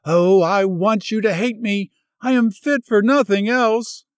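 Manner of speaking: high, loud, distraught confession; feverish anguish. Acted. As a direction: spill it out in fevered despair. Ruth's feverish outburst.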